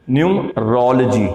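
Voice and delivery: न्यूमरोलॉजी with "rol-jee" ending; correct pronunciation. Shown as a demonstration. Teacher drills the right numerology. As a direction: say न्यूमरोलॉजी with the short ओलॉजी. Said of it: "न्यूमरोलॉजी बोलेंगे या न्यूमरोलॉजी".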